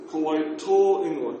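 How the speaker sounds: Ko wai tō ingoa said slowly, tō with a long vowel; slow teacher model of the Māori phrase. Shown as a demonstration. Teacher modelling the question for the class. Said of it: "a little bit longer".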